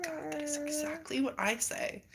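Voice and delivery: hushed unvoiced aside; whispered realization. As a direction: breathe it out in recognition. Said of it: "And I'm like".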